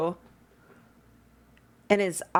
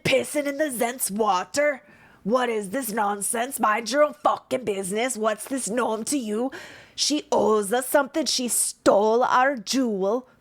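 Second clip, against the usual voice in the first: gruff anger; 5 semitones higher than usual. Acted. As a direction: tell them to mind their business. Angry Dwagar confronting party.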